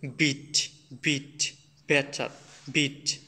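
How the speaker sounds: "বিট" with a fully voiced English b. Shown as a demonstration. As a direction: demonstrate English "বিট", putting sound into the b. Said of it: "একটু sound দিয়ে পড়ে".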